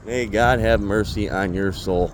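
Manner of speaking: slow mock-solemn blessing to the boss. Real, not acted. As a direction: intone it like a priest, slowly.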